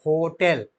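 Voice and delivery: होटल said slowly with the mouth rounded on ओ; teacher showing how the mouth forms होटल; demonstrated word. Shown as a demonstration. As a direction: shape the ओ of होटल with round lips. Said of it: "देखिए मैं बोल रहा हूँ".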